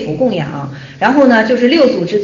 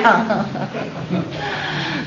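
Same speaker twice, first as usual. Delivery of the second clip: soft laugh; 3 semitones lower, 10 dB quieter than usual. Real, not acted. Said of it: "我就笑了".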